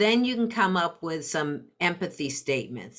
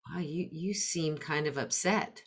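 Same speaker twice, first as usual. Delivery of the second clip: quiet and careful, naming the feeling lightly; a parent gently noticing a feeler child's mood; gentle tentative statement; 7 dB quieter than usual. Shown as a demonstration. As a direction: soften it so it doesn't feel like analysis. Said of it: "using tentative words".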